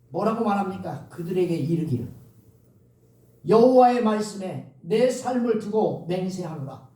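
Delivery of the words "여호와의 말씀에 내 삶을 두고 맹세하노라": scripture reading. Acted. Reads scripture.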